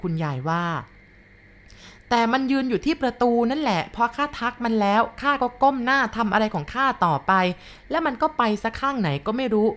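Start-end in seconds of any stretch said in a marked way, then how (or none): 1.4-9.7 put-on higher, slow old woman, puzzled; puzzled grandma. Grandma complains to the boy, puzzled and grumbling. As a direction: grumble in confusion.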